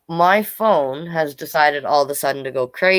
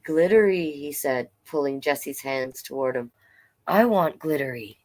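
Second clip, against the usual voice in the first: story narration. A narrator's reading. Reads picture book aloud.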